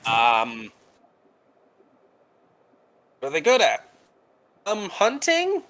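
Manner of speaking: drawn-out hissing s, like a snake. Acted. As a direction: hiss each word like a snake creature. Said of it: "the hissing voice".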